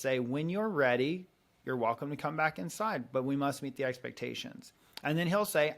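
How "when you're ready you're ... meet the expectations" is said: gentle and calm. Retold or imitated. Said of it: "I'll just gently say".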